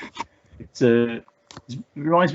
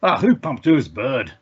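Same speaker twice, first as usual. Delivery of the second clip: put-on a light, slowed Glaswegian accent. Retelling a Glaswegian fan's comment to his co-host, in a mild Glaswegian accent. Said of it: "I'll try and do the accent".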